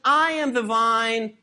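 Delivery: "I am the vine" said slowly and firmly; emphatic, drawn-out "I am the vine". Retold or imitated. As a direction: lean deliberately into "I am the vine".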